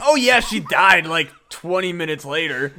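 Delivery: loud, rushed mock-casual storyteller; exaggerated breezy retelling, tailing down at the end; Jeff Lynch. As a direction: mimic a friend dropping a bombshell offhandedly. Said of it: "like Jeff Lynch being like".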